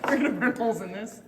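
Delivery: laughing while repeating; giggling echo of the line. Retold or imitated.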